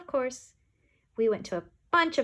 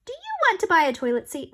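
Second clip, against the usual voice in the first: loud, higher sales yell; 9 semitones higher, 7 dB louder than usual. A narrator's reading. Kids yelling their sales pitch at a lady, loud. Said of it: "we all yelled".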